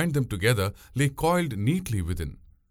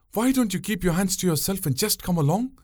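put-on much higher, scolding young woman's voice; chiding; 10 semitones higher than usual. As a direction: nag him like an impatient boatwoman. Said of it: "she chided him".

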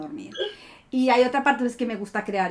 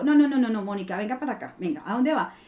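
scolding herself; 2 semitones lower than usual. Retold or imitated.

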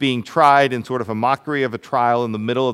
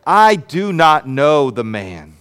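slow, louder oath-like denial; mock-swear it, louder and deliberate; 5 dB louder, slower than usual. Peter swearing to the bystanders he doesn't know Jesus, louder. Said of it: "he invoked a curse on himself and to swear".

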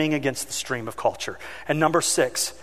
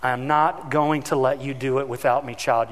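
gentle firm voice; 3 semitones lower than usual. Retold or imitated. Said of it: "the Holy Spirit saying".

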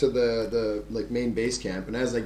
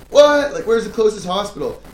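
high, loud incredulous what; retold disbelief; 8 semitones higher, 8 dB louder than usual. Told there's no hospital, loud incredulous question.

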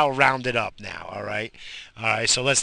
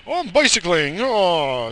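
mocking cyclist; 7 semitones higher, 4 dB louder than usual.

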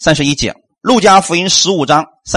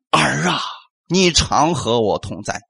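softer, slow fatherly reassurance; tender father; 5 semitones lower, 6 dB quieter, slower than usual. Acted. Preacher gently voicing the father to the elder son, soft and slow. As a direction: say it slowly and softly, as a loving father. Father's words repeated softly.

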